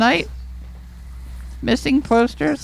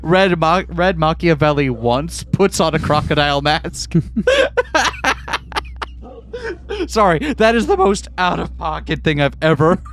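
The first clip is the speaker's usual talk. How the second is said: deep character voice; 8 semitones lower than usual. Acted. Deep voice through laughter.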